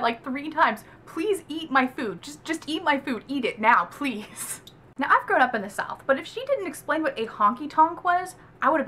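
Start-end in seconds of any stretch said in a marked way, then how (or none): 1.0-4.6 mild mock nagging plea; repeated pleading. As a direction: keep pleading, word after word. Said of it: "he kept repeating that".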